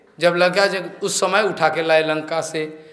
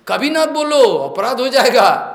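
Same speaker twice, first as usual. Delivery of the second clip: raised-pitch, emphatic warning; stern admonition; 5 semitones higher, 4 dB louder than usual. Real, not acted. Preacher forbids listeners to insult a devotee, stern admonition. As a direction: warn them off firmly, pitched up.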